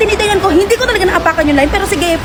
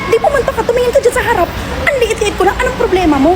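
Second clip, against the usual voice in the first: raised, pitched-up retort; retold angry yell; 7 semitones higher than usual. Arguing with the woman in the airport line, heated. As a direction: throw it back at her, heated. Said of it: "nagsigaw na ako".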